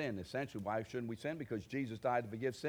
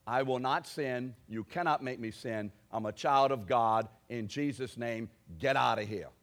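defiant declaration; 5 dB louder than usual. Shown as a demonstration. Preacher teaching believers to rebuke temptation, loud and firm. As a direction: stand up and command the enemy away. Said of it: "rise up against the slime and say".

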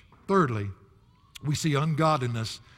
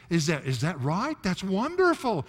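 pretend understanding; 3 semitones higher than usual. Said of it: "when we say".

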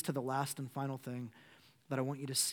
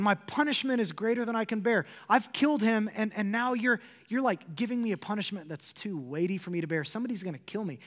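higher, louder whiny self-pity; self-pitying Cain; 4 semitones higher, 3 dB louder than usual. Retold or imitated. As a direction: whine like a man only saving his own skin. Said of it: "He's not repentant".

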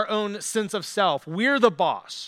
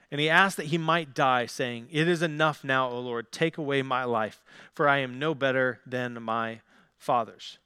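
lower, measured reading of Bible narrative; scripture reading; 4 semitones lower than usual. Acted. Preacher reads Elijah's wilderness story to congregation, lower scripture-reading voice. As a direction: read the passage aloud evenly, without preaching force.

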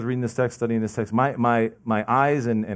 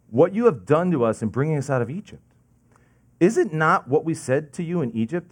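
sarcastic I told you so; 5 semitones higher than usual. Retold or imitated. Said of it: "This is like, "I told you so".

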